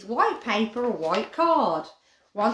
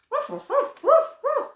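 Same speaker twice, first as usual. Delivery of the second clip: higher yappy barks, fading to plain; playful dog barks; 5 dB louder than usual. Pretend. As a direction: bark for the puppy like a game. Barking for the dogs.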